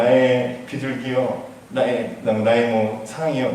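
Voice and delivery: a soft, slow lover's croon to his queen; sweet talk. Acted. King sweet-talks Esther, softly crooning. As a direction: coo it like a king flattering his bride. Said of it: "버터맨트를 날리기 시작합니다".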